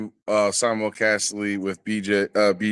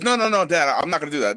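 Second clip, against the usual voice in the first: higher voice imitating an insistent son; quick higher-pitched objection; retold protest; 5 semitones higher, faster than usual. Father quoting his son refusing to quit, retold protest.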